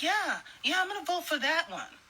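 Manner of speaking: high, quick, mocking gullible voice; mock eager voter. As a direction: parody someone eagerly going along. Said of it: "You were like".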